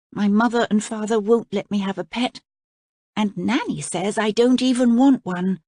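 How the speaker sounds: put-on child's letter. A narrator's reading. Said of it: "wrote a letter".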